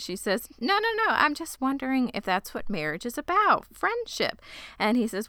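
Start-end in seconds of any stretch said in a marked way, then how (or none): 0.6-4.4 high-pitched imitation of flustered denial; retold protest in a raised, lilting pitch; acted hasty denial. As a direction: jump up high, as a protesting young heroine. Daphne hastily corrects his misunderstanding.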